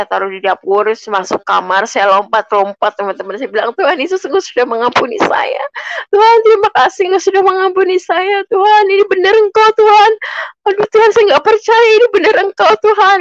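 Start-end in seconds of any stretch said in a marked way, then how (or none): 3.7-13.2 much higher and louder, fast, jubilant cry to God; overjoyed prayer. Retold or imitated. Maid jumping in her room thanks Jesus for forgiveness, ecstatic high cry. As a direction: burst out in ecstatic disbelief and thanks. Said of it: "Saya sukacita banget".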